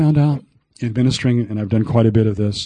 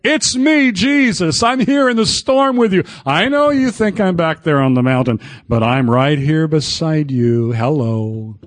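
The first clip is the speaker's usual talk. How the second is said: reassuring Jesus; 3 semitones higher than usual. Retold or imitated. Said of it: "Just the name of Jesus".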